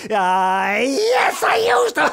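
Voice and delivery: very high, loud yell; shouted confession. Acted. Girl yelling her confession to mum. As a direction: blurt it out at full volume.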